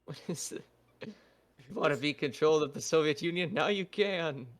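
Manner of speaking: put-on light Russian-accented game pitch. Co-host voicing an ad for the Soviet game, Russian accent. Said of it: "working on my Russian accent".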